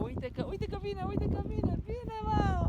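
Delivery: high, excited squeal; real excitement. Real, not acted. Excited as the seagull approaches.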